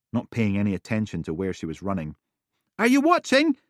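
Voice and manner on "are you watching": put-on excited little girl. Lucy calling.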